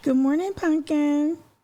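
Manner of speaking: put-on, very high, sweet, fake-nice voice. Show host greeting Pumpkin before a call-in guest, in a fake nice morning voice. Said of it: "That's my fake nice voice in the morning".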